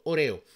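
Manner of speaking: OREO with stress on the middle E; pronunciación española. Shown as a demonstration. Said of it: "Y aquí le dicen Oreo". (Oreo a la española, «oréo»)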